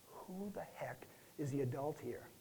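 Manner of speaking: hushed, breathy wife's jab; a fed-up wife cutting her husband down in a hushed voice; wife's retort. Retold or imitated. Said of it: "she said".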